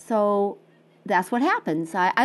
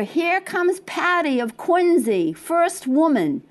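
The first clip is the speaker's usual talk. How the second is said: race announcer; 5 semitones higher, slower than usual. Retold or imitated. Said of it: "the loudspeakers".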